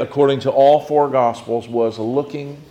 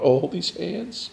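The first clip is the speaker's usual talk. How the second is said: slow, higher, rising voice of hushed remembrance; tender wonder; 6 semitones higher, 4 dB quieter, slower than usual. Acted. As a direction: let the thought climb slowly, lost in the memory. Imagined thought of grieving Mary Magdalene.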